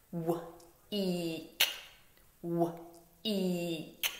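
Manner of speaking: W-eek said as separate sounds, w then eek; sounds chopped apart. Shown as a demonstration. Teacher chopping W-eek apart for the class. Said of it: "So chop it with me".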